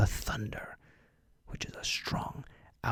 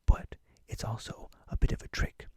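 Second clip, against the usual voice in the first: whispering pirate; 3 semitones higher than usual. Acted. Whispered pirate host throughout.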